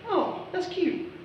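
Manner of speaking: high, slow mock coo over a stuffed bear; cooing parent. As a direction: coo it like a doting mom.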